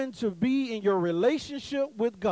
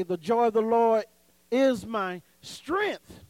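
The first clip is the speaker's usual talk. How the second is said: slow "is my", then "strength" set apart and pitched up; stress on strength; slower than usual. Shown as a demonstration. Preacher showing another emphasis to congregation, singling out "strength". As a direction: pause slightly and lift the word "strength". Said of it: "So you saying strength".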